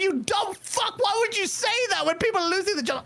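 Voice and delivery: high mock shout at a tone-deaf tweet; mock yell. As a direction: yell it like you're calling him out. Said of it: "I'm like".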